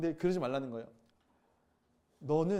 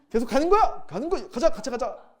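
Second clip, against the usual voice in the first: higher, louder, rallying himself to go on; eager resolve; 7 semitones higher, 9 dB louder than usual. Retold or imitated. Pastor answering the Lord's command, eager rallying. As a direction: pump yourself up and go.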